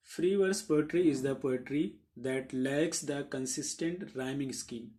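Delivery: very slow, evenly spaced English definition; slow dictation pace; dictation reading. Acted. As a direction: read it out slowly so students can write it down.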